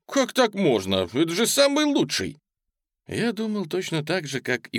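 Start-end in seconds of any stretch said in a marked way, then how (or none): 0.1-2.4 protesting. A narrator's reading. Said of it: "запротестовал Джимми".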